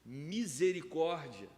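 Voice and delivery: ordinary talk, nothing marked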